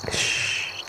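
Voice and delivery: soft shushing sound; hushing. Acted. Husband hushing his upset wife to calm her.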